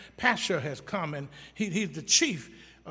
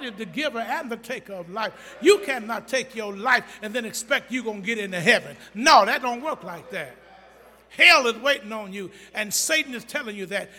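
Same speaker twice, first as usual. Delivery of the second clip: louder, hammering warning; loud warning preach; 3 semitones higher, 7 dB louder than usual. Acted. Preacher warning the church about suicide, loud. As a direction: warn them hard.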